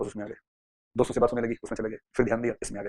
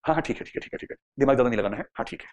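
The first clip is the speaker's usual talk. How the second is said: offhand, hurried "ठीक है"s, the last one dropped to a murmur; careless agreeing; 2 semitones lower than usual. Acted. A persuaded listener lazily agreeing, trailing off. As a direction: go along without thinking. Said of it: "अब वो इस mood में आ गया".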